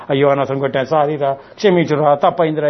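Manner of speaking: low, regretful parent apologising; mock remorse. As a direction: imitate a parent sorry afterwards, voice dropped low. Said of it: "ఆలోచించి ఏడుపు". (పశ్చాత్తాపాన్ని అనుకరిస్తూ తగ్గు స్వరం)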